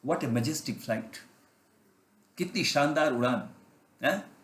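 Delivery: slow, marvelling words about the flight; awed admiration. Acted. Chick watching the eagle soar, slow and awed. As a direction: let the wonder stretch out slowly.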